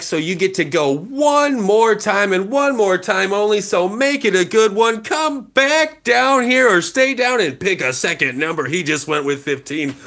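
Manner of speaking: rushed without pausing for air; all in one breath. Real, not acted. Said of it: "That was all in one breath".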